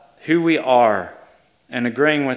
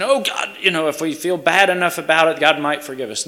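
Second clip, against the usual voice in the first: higher-pitched pleading, lightly acted; a touch of pleading, raised in pitch; mock begging; 5 semitones higher than usual. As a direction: imitate someone begging God for forgiveness. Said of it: "Confession is not begging".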